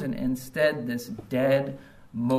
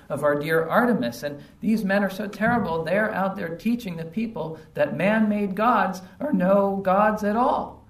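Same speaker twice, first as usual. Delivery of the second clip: higher, mildly angry complaint building louder; mock indignation; 5 semitones higher, 4 dB louder than usual. Silversmith complaining about men ruining Artemis's reputation, mock-angry. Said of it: "he's pretty angry about these terrible guys".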